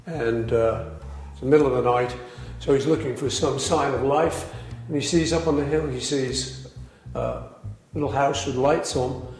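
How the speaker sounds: understated, straight-faced joke telling; deadpan. Real, not acted. Beatle telling a pub joke about Jones, deadpan. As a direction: tell the whole joke evenly, giving nothing away. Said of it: "deliver this joke with absolute deadpan perfection".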